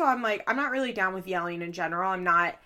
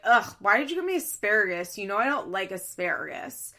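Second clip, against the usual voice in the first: rude complaint. Retold or imitated. Woman imagined griping to boyfriend about her plate, mildly rude. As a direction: imitate a rude, put-out grumble. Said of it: "And was very rude about it".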